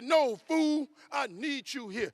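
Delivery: high, loud imitation of an insistent wife; acted-out pleading that starts with a loud burst; exasperated protest. Wife begging her husband to stay, exasperated protest. Wife's retold protest, voiced higher.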